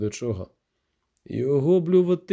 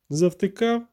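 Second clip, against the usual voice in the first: much higher snapped question; barked; 6 semitones higher, slower than usual. A narrator's reading. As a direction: snap at the gawking man. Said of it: "гаркнула вона".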